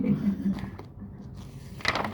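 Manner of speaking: soft unvoiced chuckle; breathy little laugh. Real, not acted. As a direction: laugh quietly at your own joke. Laughs after joking about buying.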